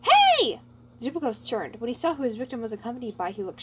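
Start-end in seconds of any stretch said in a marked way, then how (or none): 0.0-0.6 high, loud call across the street; projected shout. Acted. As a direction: call out loudly to him. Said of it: "projected his voice".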